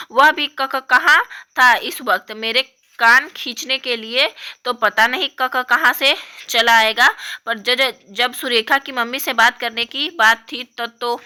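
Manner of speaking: lightly voiced upset young girl; upset little girl. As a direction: complain like a hurt kid.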